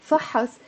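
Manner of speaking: فحص as fa-has with two full "a" vowels; فحص, both syllables sounded. Shown as a demonstration. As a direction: say فحص with a clear "a" after ح. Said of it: "it becomes two syllables".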